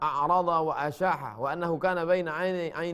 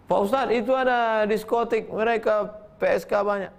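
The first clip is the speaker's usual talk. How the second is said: higher, louder eager tattling; eager report; 7 semitones higher, 5 dB louder than usual. Retold or imitated. Congregant eagerly telling the ustadz, louder and higher. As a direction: blurt it out like a worried congregant.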